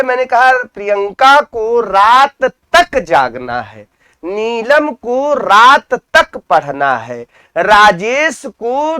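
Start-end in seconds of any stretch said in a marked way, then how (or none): 0.6-7.2 slow examples leaning on "तक"; stress on तक. Shown as a demonstration. Teacher giving students example sentences, stress on "तक". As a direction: set "तक" apart with emphasis each time. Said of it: "अब हमने जोर किस पे दिया है".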